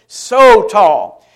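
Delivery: SO drawn out before tall; stress on SO. Shown as a demonstration. Preacher shows emphatic word, stretching SO. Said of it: "so is an emphatic word".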